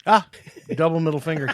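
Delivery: usual speaking voice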